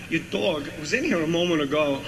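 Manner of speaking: lightly voiced Walken, pauses stretched; Walken impression. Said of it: "Walken goes".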